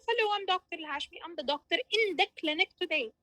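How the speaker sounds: quick, light doctor's greeting; brisk friendly intro. Shown as a demonstration. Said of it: "So how to introduce myself?".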